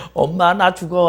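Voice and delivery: high, loud cry of a falling chick; mock scream. Chick falling from the sky cries to its mother, loud high. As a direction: yell for mom as if falling. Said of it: "소리를 막 치겠죠".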